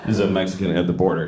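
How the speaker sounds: low, fast, mock Mexican accent; put-on Mexican accent. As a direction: speak like a mocking Mexican stereotype. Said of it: "This is what I talk like now".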